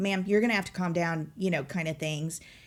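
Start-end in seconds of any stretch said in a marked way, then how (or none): none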